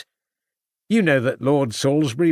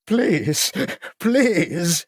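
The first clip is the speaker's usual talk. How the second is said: mildly tearful please; 8 semitones higher than usual. Acted. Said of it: "crying into his hands".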